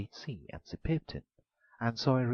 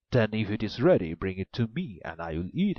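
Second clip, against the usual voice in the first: a loud ogre demand; the ogre calls for his supper; an ogre orders the maiden to bring the meat, loudly; 7 dB louder than usual. A narrator's reading.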